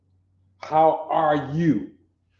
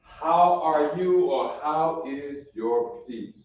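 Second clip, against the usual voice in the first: slow translation; slower than usual. Shown as a demonstration. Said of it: "Ma shalom ka".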